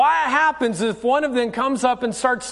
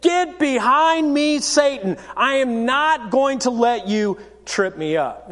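firm boundary-setting; 2 semitones higher than usual. Acted. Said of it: "I'm gonna set a boundary right now".

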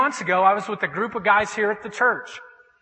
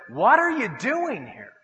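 slow, drawn-out challenge; challenging question; 3 semitones higher, slower than usual. Retold or imitated. Prompting from God at a strip club, challenging question. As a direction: stretch the question out to confront him. God's prompting voiced in story.

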